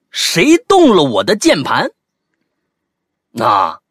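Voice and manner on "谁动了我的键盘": high, louder acted accusation; loud demand. Colleague holding a keyboard confronts the flatmate, loud demand. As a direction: demand it loudly as the offended colleague. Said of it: "就大声说".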